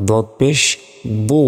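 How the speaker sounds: বো with a heavy consonant and rounded o; thickened, held বো; thick, heavy dad. Shown as a demonstration. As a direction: fatten the sound of বো. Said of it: "মোটাভাবে".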